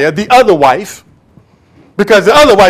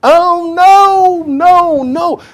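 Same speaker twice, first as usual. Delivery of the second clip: mock timid pray-er; 11 semitones higher, much slower than usual. Mimicking quiet pray-ers in church.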